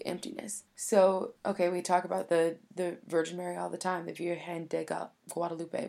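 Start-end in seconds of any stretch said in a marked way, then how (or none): 4.1-5.9 poorly attempted Spanish accent; bad Spanish accent. Real, not acted. Speaker trying to say Mary's title in Spanish, bad Spanish accent. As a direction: stumble through an awkward Spanish accent. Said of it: "that was the worst accent ever".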